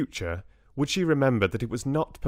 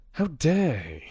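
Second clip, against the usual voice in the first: higher indignant question, evenly delivered; indignant outrage; 7 semitones higher than usual. Acted. Richard rages about Maddock to Bella, indignant and higher. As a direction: start high on "How dare he?", affronted.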